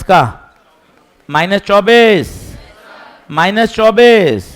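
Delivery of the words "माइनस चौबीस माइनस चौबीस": called-out answer. Real, not acted. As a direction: ring out the answer to the class. Teacher calls out the answer.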